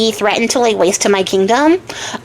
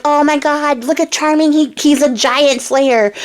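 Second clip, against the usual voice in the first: higher, mildly hammed-up amazement; cheering crowd; 4 semitones higher than usual. Townspeople greeting Charming the giant slayer, mock cheering. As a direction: play an admiring onlooker, voice lifted. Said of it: "the people start cheering".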